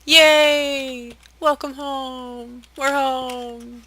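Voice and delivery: high cheerful welcome. Real, not acted. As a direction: greet home brightly. Arriving home in game.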